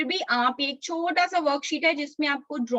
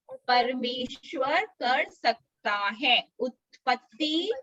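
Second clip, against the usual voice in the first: put-on slow, drawn-out words for children to learn; slow verse recitation; slower than usual. Shown as a demonstration. Teacher gives children the memory verse, slow recitation. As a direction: recite it slowly, phrase by phrase.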